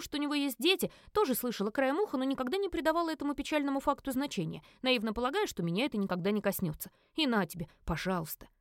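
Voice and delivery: ordinary delivery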